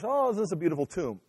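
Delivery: lightly voiced admiring gasp of approval; a touch of mock admiration; admiring onlooker. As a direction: play someone taken in by appearances. Imagined admirer of the whitewashed tomb.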